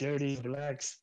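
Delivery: high-pitched mock-dramatic curse; hammed-up film-quote impression; Charlton Heston. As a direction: put on a high, strained movie-hero voice. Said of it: "Charlton Heston".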